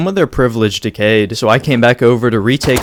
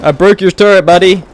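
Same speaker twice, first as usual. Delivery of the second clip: taunting; 4 semitones higher, 5 dB louder than usual. Real, not acted. Taunting enemy after breaking turret.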